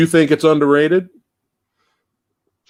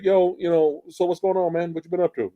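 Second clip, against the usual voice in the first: higher, easygoing buddy chat for a monster; casual normal talk; 5 semitones higher, 3 dB quieter than usual. Acted. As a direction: voice the monster as a chatty regular guy. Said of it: "like, talking normal like that".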